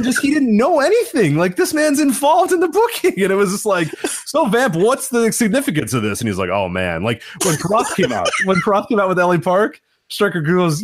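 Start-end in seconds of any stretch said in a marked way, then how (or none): 4.3-6.2 high, eager commentator question; imitated announcer prompt. Play-by-play man prompting his colour guy, mock-eager. 6.5-7.0 retold clueless non-answer. Colour guy who knows nothing answering his partner, vague.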